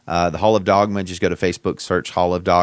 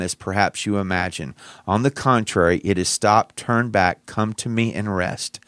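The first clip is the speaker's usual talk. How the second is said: devotional reading. Acted. Reads a devotional quote aloud.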